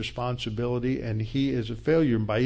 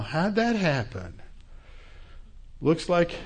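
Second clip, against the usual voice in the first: much higher, pressing mock-outrage; mocking challenge; 4 semitones higher than usual. David taunting Abner over the missing spear, higher mocking voice. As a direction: wave the spear in his face, higher and faster.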